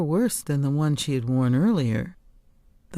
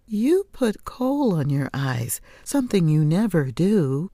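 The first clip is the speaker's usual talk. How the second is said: indignant retort; 3 semitones higher than usual. Acted. Daughter retorting to her mother, indignant and higher. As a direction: throw it back at her, stung.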